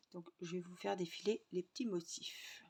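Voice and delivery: soft whisper aside. Real, not acted. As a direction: whisper it quietly. Soft aside while showing.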